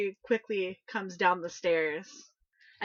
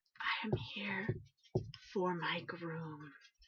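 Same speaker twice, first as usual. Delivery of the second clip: very quiet, gentle, soft, hushed voice; 9 dB quieter than usual. Answering the players' call of who is there, as an unseen figure, soft voice. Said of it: "a soft voice".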